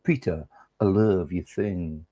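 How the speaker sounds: a hushed, drawn-out declaration of love; mock whisper. Flirty shirt to Peter, mock whisper. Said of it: "she whispered".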